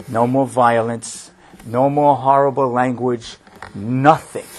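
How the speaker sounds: quiet and steady, letting it land; softly told ending. Retold or imitated. Closing Ivan's story for the listeners in a soft, low voice.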